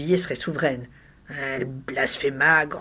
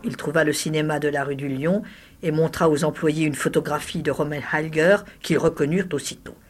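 plain reading voice

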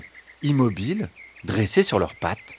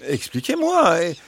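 higher-pitched, pleading fox; imploring fox; 8 semitones higher than usual. A narrator's reading. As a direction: beg them to respect your freedom. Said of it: "Implora le renard".

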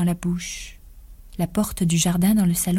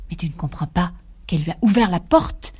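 a lightly changed, eerie voice that seems borrowed; a voice not her own. Acted. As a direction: speak as if someone else were talking through her. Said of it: "de cette voix qui n'était pas la sienne". (une voix qui n'est pas la sienne, à peine changée)

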